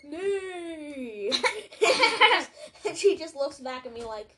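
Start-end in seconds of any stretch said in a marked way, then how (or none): 0.1-1.3 imitated horse neigh. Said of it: "And it just goes".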